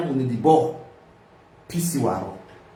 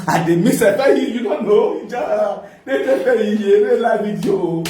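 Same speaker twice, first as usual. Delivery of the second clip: laughing; 2 semitones higher than usual. Real, not acted. Laughing while telling.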